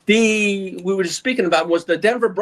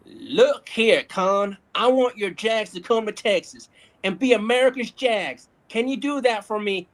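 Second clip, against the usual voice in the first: Uncle Jerry voice. Retold or imitated. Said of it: "kindly requested in Uncle Jerry's voice".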